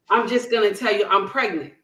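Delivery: quick, offhand, mildly nasty retelling; understated nastiness, said fast; nasty attitude. Retold or imitated. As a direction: replay a curt announcement with a touch of attitude. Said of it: "Like nasty".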